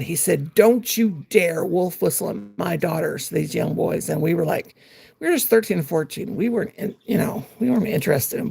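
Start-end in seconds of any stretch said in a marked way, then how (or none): 0.5-3.3 mad dad. Retold or imitated. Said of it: "oh, my dad was mad".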